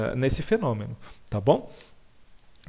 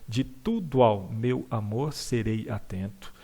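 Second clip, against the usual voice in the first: x0.7 slow, even reading of the verse; slow poem reading; 3 semitones lower, slower than usual. Shown as a demonstration. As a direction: read the line slowly to show the gaps. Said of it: "E nem aqui, ó". (leitura lenta do verso)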